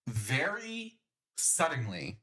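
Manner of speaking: slow, stretched out dramatically; dramatic slow. Real, not acted. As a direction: drag the words for suspense. Dramatic slowed buildup.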